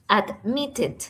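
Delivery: "admitted" said carefully, with the force on MIT; "admitted" as ad-MIT-ted, slowly sounded out; stress on middle syllable. Shown as a demonstration. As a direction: lean on the second syllable of "admitted". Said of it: "el mayor stress, la mayor fuerza".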